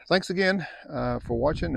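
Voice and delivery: bright, high, upbeat thank-you; cheerful thanks. Real, not acted. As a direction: sing out the thanks warmly. Sign-off thanks to viewers.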